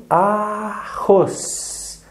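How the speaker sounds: "Arroz" drawn out, mouth moving twice; slow mouthed syllables. Shown as a demonstration. Teacher tells the child to close eyes, then slowly. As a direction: say "Arroz" slowly, feeling two mouth moves. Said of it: "Mexi duas vezes a boca".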